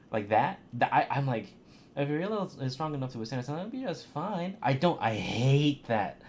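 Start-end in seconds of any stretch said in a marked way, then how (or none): 1.9-4.6 mock whiny singsong, rising high at the end; whiny imitation. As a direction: mimic the whining voice acting. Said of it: "sounding like she's whining".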